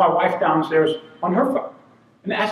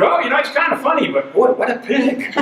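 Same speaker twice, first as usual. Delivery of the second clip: higher, laughing, slowing on the insult; amused mock disgust; 6 semitones higher than usual. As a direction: laugh then drag out "what a pig". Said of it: "They're going".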